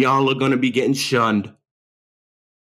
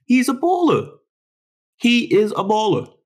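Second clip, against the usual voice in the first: much higher, excited shout of praise; hyped praise; 9 semitones higher than usual. Real, not acted. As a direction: hype him up like a fan. Hyping the rookie point guard.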